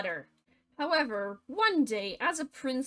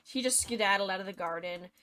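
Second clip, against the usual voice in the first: quick version; 3 semitones lower, faster than usual. Shown as a demonstration. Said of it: "And then he just skedaddled".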